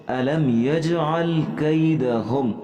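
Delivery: drawn-out tarteel chant, each word held long; slow Quran recitation. Shown as a demonstration. Teacher reciting the verse slowly for students.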